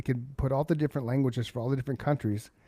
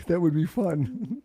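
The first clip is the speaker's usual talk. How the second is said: laughing; 5 semitones higher, slower than usual. Real, not acted. Laughing, slow.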